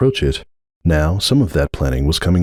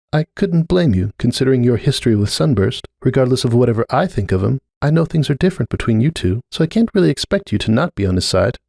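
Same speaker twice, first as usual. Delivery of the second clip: put-on higher, uneasy young mare's voice; Cupcake, uneasy mare; 5 semitones higher than usual. Cupcake telling Starlight she feels the rift, higher uneasy voice. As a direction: gently admit discomfort, voice lifted.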